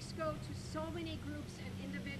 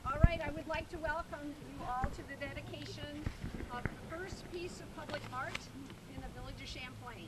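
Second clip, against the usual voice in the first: teacher voice. Real, not acted. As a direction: project to the crowd like a teacher. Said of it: "I've got my teacher voice".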